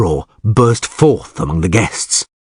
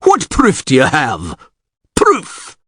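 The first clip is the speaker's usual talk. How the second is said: yelled; 7 semitones higher, slower than usual. Acted. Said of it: "yelled Visigerd".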